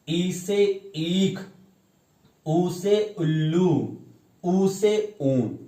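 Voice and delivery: very slow, each word drawn out like a chant; slow alphabet recitation. Shown as a demonstration. Teacher reciting the alphabet to pupils, slow sing-song chant. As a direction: recite the letters slowly for small children. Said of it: "जैसे".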